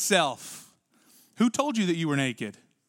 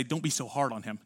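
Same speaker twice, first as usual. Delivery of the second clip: gentle admonition; 6 semitones lower, 7 dB quieter than usual. Acted. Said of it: "You thought I was gonna say".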